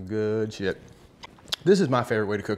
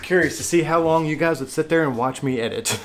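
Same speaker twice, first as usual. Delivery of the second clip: laughing while talking; chuckling through the words; 4 semitones higher, 4 dB louder than usual. Real, not acted. Post-credits laughing aside.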